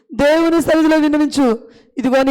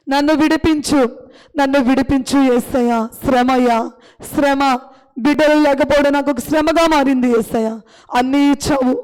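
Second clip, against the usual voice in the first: slow, pleading prayer to Jesus; fervent prayer; 2 semitones lower than usual. Acted. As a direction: pour out the need before God. Pastor prays aloud for listeners. (వేడుకునే ప్రార్థన స్వరం)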